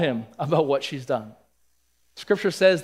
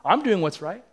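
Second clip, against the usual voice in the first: mock preachy scolding from a high horse, pitched up and louder; high and mighty; 6 semitones higher, 3 dB louder than usual. Pretend Abigail talks down to David, proud and scolding. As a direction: lecture him like you're above him. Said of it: "She doesn't come on her high horse".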